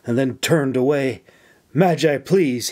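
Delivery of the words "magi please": mild pleading plea, a little higher; begging. Acted. Young soldier begging his mentor to deliver a letter. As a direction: ask her humbly for one favour. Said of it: "he begged".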